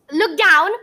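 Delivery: excited call. A narrator's reading. Finding next clue.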